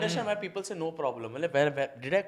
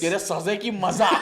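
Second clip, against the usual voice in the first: usual speaking voice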